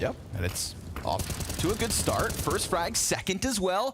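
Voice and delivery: brisk caster call, rising with each frag; live play-by-play. Real, not acted. Caster counts off the opening frags, rising play-by-play. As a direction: build as the kills land.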